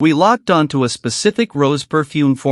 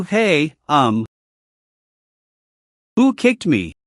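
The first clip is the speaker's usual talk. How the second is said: startled yelp; slower than usual. Acted. Colleague kicked under the table, startled yelp. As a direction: caught off guard by a kick.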